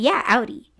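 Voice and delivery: "Audi" said OW-dee; name mispronounced. Retold or imitated. Coworkers still not hearing her, "Audi" as OW-dee. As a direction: repeat "Audi" wrongly with an OW. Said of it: "They're like".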